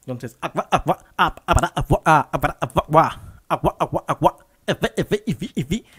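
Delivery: fast chained agua and efe scratches; vocal scratch routine. Shown as a demonstration. Teacher performs a full vocal scratch combo, scratch routine. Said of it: "en el momento de agua".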